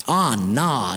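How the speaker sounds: low, reluctant country farmer; old farmer. Acted. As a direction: beg off like a bashful old farmer. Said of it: "Billy was this old farmer".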